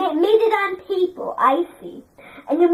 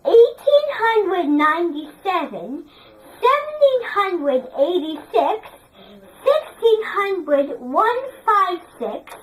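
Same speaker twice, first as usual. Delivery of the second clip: model reading. Shown as a demonstration. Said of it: "read it all in English accent like this".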